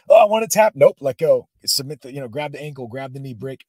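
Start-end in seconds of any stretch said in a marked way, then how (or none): 0.1-0.7 high, loud re-enacted plea to give up; hammed-up cry of wanting out; mock desperate plea. Student begging coach to tap out, mock desperate. 0.7-1.5 loud, raised-pitch coach's refusal; imitated firm refusal. Coach refusing to let his student tap, firm.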